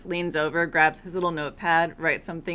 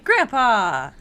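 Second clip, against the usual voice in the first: loud, high exasperated group protest; mock scolding cry; 5 semitones higher, 9 dB louder than usual. Whole family reacts to Grandpa's crude remark, mock scolding cry. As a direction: imitate everyone crying out in dismay.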